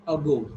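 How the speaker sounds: "Ago" with a light, unstressed first vowel; "Ago" starting on a brief schwa; weak A. Shown as a demonstration. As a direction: weaken the A in "Ago". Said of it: "weak A".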